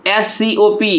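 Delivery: slow, letter-by-letter spelling; each letter separate and unhurried. Shown as a demonstration. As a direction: spell the word out slowly for a class. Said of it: "किस प्रकार से तोड़ेंगे".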